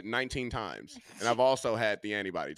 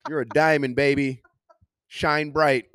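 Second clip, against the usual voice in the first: louder, high, encouraging church lady; 5 semitones higher, 5 dB louder than usual. Acted. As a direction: cheer him on like a church auntie. Voicing church lady to choir boy.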